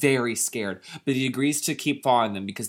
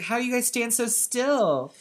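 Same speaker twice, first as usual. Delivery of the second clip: high curious voice; curious girl; 8 semitones higher than usual. Acted. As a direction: ask like a wondering girl. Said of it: "Mindy's like".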